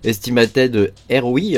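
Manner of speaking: estimated R O I said slowly in a French accent; careful, self-mocking French-accented English on estimated R O I. Shown as a demonstration. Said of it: "avec mon accent pourri".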